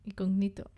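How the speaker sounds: "Incognito" with the stress mark on the i. Shown as a demonstration. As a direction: lean on the i of "Incognito". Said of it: "Tonos to I".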